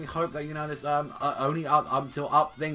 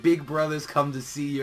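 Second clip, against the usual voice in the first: creepy clown voice; 3 dB louder than usual. Retold or imitated. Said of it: "does that really goddamn creepy clown face".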